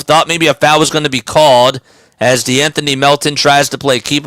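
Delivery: live game call; play-by-play. Acted. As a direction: call the action courtside.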